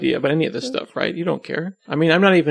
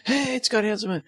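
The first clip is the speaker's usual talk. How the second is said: higher, laid-back surfer dude greeting; 8 semitones higher, 4 dB quieter than usual. Retold or imitated. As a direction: play the stoked surfer dude spotting a celebrity. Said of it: "so I'll just make them surfer dudes".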